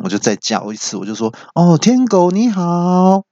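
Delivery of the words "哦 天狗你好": slow, high-pitched call; raised voice. Retold or imitated. Owner calls unresponsive voice radio, raised voice. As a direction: raise your voice to wake the device. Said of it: "那我就提高音量".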